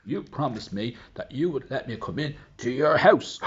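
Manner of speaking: high, loud reproachful frog; the frog reminds her of her promise. Acted. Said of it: "And the frog said".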